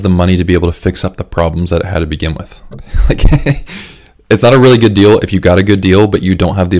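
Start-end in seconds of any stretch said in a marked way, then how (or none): 2.7-4.3 a short real laugh. Real, not acted. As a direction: laugh through the word. Laughs mid-sentence.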